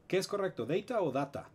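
data primero como deita, luego como data; dos pronunciaciones. Shown as a demonstration. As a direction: contrasta data deita y data con a. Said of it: "Nadie sabe cómo se pronuncia". (data dicho de dos maneras)

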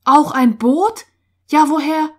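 loud, high, incredulous questions; startled questioning. A narrator's reading. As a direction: fire back in disbelief. Boys react to the news.

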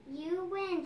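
put-on excited child's shout. A narrator's reading. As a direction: call it out loud. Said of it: "shouted Danny".

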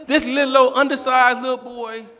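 big preacher emphasis on the description; loud emphasis. Real, not acted. Building to punchline about boy.

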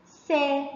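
سا as a single sa with fatha; short vowel. Shown as a demonstration. Teacher repeats seen with fatha for pupils, سا said short. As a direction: give سا a short open vowel. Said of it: "الصوت القصير".

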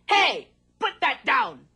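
slow, firm tree voice; tree's protest. Acted. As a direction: tell him off like an old tree. Tree scolds the man.

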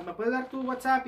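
high-pitched request in her voice; imitated ex-girlfriend. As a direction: mimic her asking, pitched well up. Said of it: "y me dijo".

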